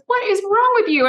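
high-pitched, incredulous aunt impression; exasperated imitation. Aunt confronts sobbing niece.

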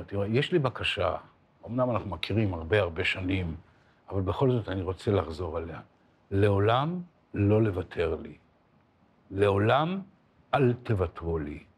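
earnest retold request, measured pauses; turning serious. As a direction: make the request in sober earnest. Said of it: "ואז הוא מרצין".

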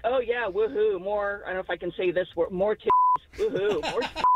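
sarcastic. Retold or imitated. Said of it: "like, sarcastic".

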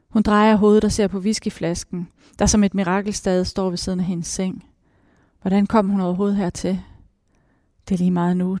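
measured reading of a novel aloud; story narration. Acted. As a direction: read the passage like an audiobook. Author reads from her novel. (oplæsning af roman)

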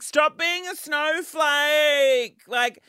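slow, lazy, eye-rolling mimicry of critics; mocking the people who call her a snowflake, slow and dismissive; dismissive mock drawl. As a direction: drag out a dismissive "stop being a snowflake". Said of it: "everyone's like".

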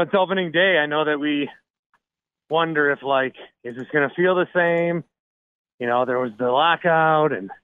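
winded from climbing stairs; breathless after the stairs; out of breath. Real, not acted. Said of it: "sorry, I'm out of breath".

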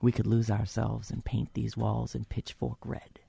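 reading through a head cold; stuffy cold voice. Real, not acted. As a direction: read it with a blocked-up cold voice. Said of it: "My cold is working for me".

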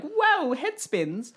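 dizzy whoa. Retold or imitated. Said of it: "I'm like".

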